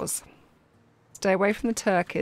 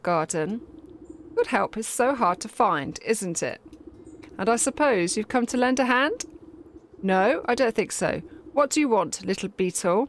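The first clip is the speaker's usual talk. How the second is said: a light, haughty queen; scornful queen bee. Acted. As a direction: sneer down at the commoner. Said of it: "looks down her curled nose at you scornfully".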